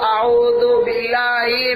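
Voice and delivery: slow, deliberate आऊदु बिल्लाहि, each syllable spelled out; slow recitation demo. Retold or imitated. Maulana spells out the recitation slowly for a new pupil. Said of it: "इसको बताओ".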